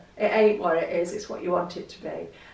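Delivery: normal talking voice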